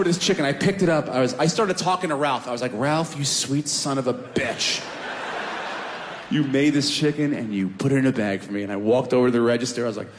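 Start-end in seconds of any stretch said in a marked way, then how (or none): 2.7-8.6 mock tender praise. Talking to chicken lovingly.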